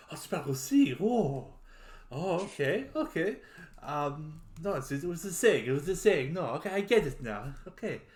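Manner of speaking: surprised French knight, lightly acted; mildly shocked. Knight surprised to hear his own language, mildly shocked. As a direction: catch on with a string of startled okays. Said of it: "like, shocked in a second".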